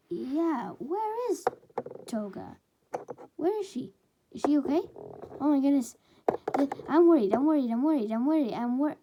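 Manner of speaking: high, loud, panicked babbling; frantic worry. Acted. Twice frets loudly about missing Toga, panicked. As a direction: spiral into a worried panic.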